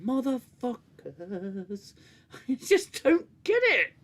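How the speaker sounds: high, loud indignant disbelief; exasperated outburst. Real, not acted. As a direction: rant in outraged disbelief. Ranting in disbelief at the plot.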